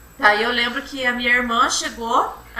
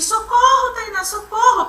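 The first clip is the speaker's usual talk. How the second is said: high, loud cry of socorro, imitating the scream; retold cry for help; 10 semitones higher, 3 dB louder, slower than usual. Retelling how she screamed for her sister on the phone, high mock yell. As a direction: call for help much higher, as she did that night. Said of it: "E daí eu gritava assim".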